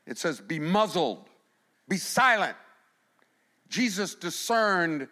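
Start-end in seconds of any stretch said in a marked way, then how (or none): 0.4-2.6 stern rebuke. Acted. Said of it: "he rebukes, it's a word, a strong word".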